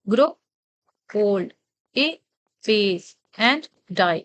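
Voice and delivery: very slow, each syllable set apart to mark unstressed and stressed beats; iambic stress demo. Shown as a demonstration. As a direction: tap out the iambic beat, syllable by syllable. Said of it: "ये आप unstress stress देख पा रहे हैं". (बहुत धीमे, हर syllable अलग करके अनस्ट्रेस्ड-स्ट्रेस्ड लय दिखाते हुए)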